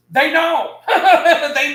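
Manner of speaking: words breaking into real laughter; can't hold back the laugh. Real, not acted. Laughing at the other store.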